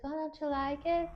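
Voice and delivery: high, lilting Transatlantic question; put-on Transatlantic voice, rising at the end; transatlantic accent. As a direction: play an old-film Transatlantic accent. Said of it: "That was a good accent".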